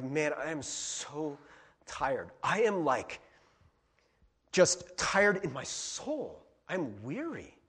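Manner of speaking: slow, worn-out confession; acted exhaustion, slow and heavy; weary. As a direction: drag the words out, tired to the soul. Acting out a worn-out, weary person.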